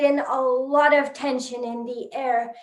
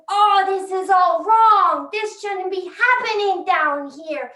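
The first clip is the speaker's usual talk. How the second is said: raised voice of complaining fans; disgruntled fans; 4 semitones higher than usual. Acted. Fans up here complaining about the match, mildly indignant. Fans getting upset in the story.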